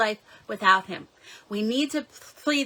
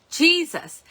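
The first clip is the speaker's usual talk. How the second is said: desperate yell, high and louder; yelled cry; 7 semitones higher, 4 dB louder than usual. Retold or imitated. Mother mid panic attack calling on Jesus, desperate yell. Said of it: "I just yelled".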